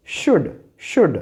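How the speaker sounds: should said as shud, no l; silent l demo. Shown as a demonstration. Teacher showing students the silent l in should. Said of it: "And here it is".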